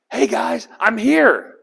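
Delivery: high, loud, eager greeting; eager youngster. Acted. Young David greeting his brothers at the battle line, eager youngster. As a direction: call out brightly as the kid brother arriving. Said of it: "remember, he's the young one".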